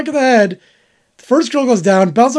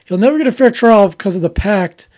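parroting him back in a sing-song tone; mocking repeat. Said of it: "S2 repeats it mockingly".

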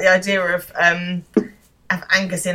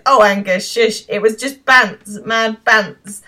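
higher, slow mock hushing; dismissive banter; 3 semitones higher, 4 dB louder, slower than usual. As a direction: brush it off as a joke, drawn out. Acted brushing off of victim.

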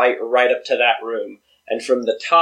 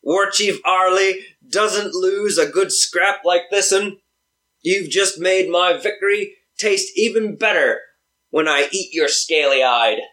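orc voice; 5 semitones higher than usual. Acted. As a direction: growl it like a war chief orc. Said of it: "I like your orc voice".

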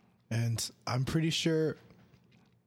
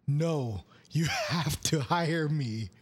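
slow, emphatic demand; mildly forceful retold sleep-talk; insistent; 2 semitones higher, slower than usual. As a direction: plead your case to an interviewer. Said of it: "Yelling at some, like, interviewer".

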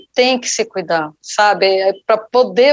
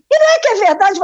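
high-pitched, astonished realization; retold amazement; 11 semitones higher, faster than usual. Colleague discovers the barking dog was real, amazed. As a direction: act out a colleague suddenly convinced.

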